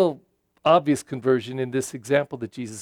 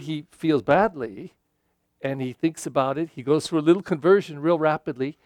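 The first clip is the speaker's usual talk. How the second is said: ordinary talk, nothing marked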